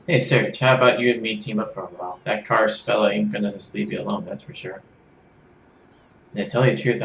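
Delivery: put-on a mild Australian accent that slips British; lonely traveller, bad Australian accent; attempted Australian accent. Kit offering to team up with Serge in a bad Australian accent. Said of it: "supposed to be Australian".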